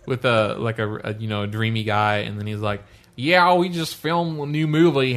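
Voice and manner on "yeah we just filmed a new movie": slow, higher voice with a terrible tic; louder, stretched-out mock celebrity delivery; weird vocal tic. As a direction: imitate an actor's odd vocal tic, drawn out. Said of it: "this really terrible, weird vocal tick".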